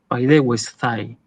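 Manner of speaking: paidewestai low and slow, ending in thai with th as in think; with a Z sound. Shown as a demonstration. Teacher repeats paidewestai for the class, with the th sound. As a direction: draw out paidewestai, softening its last T to a Spanish Z. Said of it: "con esa Z".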